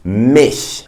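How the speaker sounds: MICH ending in a soft hissed ch; slow MICH with the German soft ch. Shown as a demonstration. Teacher translates me for learners, soft German ch. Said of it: "sound that comes from the back of the throat".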